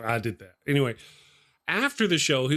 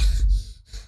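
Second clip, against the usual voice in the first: mock winded puffing; breathing hard; 5 dB louder than usual. Worn out from watching Paul's push-ups, mock puffing. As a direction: imitate heavy, voiceless breaths. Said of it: "I'm over here breathing hard".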